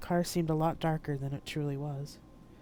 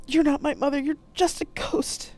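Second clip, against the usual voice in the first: high, raised, slowing at the end; defiant cry; 11 semitones higher, 7 dB louder than usual. Acted. Poe rejecting the ghost of her mother, crying out. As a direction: fling it back at the ghost.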